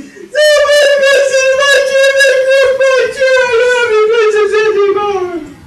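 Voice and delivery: very high, loud singsong wail; long piercing baby-bear whine. Acted. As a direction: squeal it out like a heartbroken cub. Baby Bear wails over chair.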